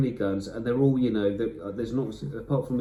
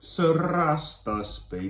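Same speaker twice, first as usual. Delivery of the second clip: excited; 7 semitones higher, 3 dB louder, slower than usual. Real, not acted. Excited about the next knights.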